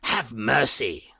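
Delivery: slow begging plea; a trapped man begging for mercy; pleading voice. Acted. Hyde pleading behind the door.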